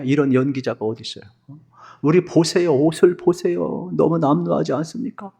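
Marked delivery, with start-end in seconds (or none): 2.0-5.3 higher-pitched, lightly acted begging; mock-pitiful appeal; tearful pleading. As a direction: grovel for pity, as if near tears. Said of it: "막 울먹거리면서, 막 허리 굽신거리면서".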